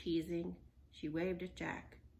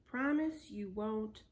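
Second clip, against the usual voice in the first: stern; 5 dB louder, slower than usual. Acted. Stern slow demand.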